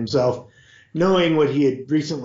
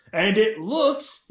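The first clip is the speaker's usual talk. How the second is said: loudly; 8 semitones higher, slower than usual. A narrator's reading. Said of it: "he added loudly".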